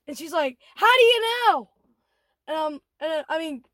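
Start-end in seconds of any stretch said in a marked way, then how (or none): 0.8-1.7 louder, higher mock-indignant question; retold indignant challenge. Retold customer challenges manager about the nuts, indignant. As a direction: imitate an affronted customer firing back.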